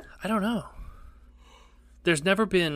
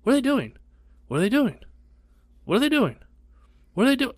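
high anxious repeated question; Mom; 9 semitones higher, faster than usual. Retold or imitated. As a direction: mimic mom fretting over and over, high.

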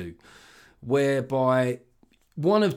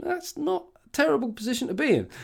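pleased local; 13 semitones higher than usual. Retold or imitated. Voicing Northern Irish people.

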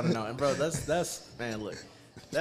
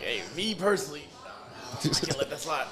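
laughing mock quote; 3 semitones higher than usual. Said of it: "Be like".

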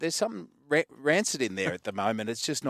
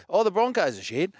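high-pitched sarcastic outcry; mock alarm; 9 semitones higher, 4 dB louder than usual. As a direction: imitate a panicking public, pitched way up. Mimics public overreaction to Broncos losing.

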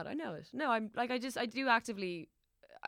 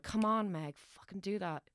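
mildly exasperated, pushing yourself; frustrated self-talk; slower than usual. Retold or imitated. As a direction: act out a frustrated nudge to yourself. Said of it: "only if I'm frustrated".

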